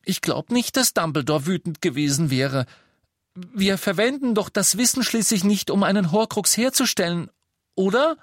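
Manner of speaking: put-on high, pleading young girl; anxiously begging for approval. A narrator's reading. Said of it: "sagte dann flehentlich".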